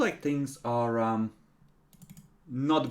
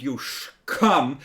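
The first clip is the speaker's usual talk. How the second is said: put-on slow slurred drunken mumble; drunk mumbling; 5 dB louder than usual.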